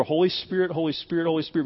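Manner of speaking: softly repeated, like a private prayer; repeated over. Retold or imitated. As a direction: imitate a preacher's quiet repeated invocation. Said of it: "he'd repeat over".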